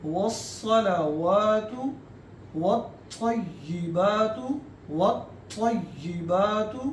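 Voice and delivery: slow, drawn-out Arabic prayer recitation. Shown as a demonstration. Teacher reciting the tashahhud for students. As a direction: recite each phrase slowly and clearly.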